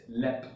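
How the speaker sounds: lep said as one short clipped syllable. Shown as a demonstration. Teacher names the sound of the spelling, clearly. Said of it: "its pronunciation is".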